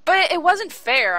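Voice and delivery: put-on high, drawn-out teenage objection; indignant protest. Daughter defending herself to dad over detention, high indignant protest. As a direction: protest slowly, pitched right up.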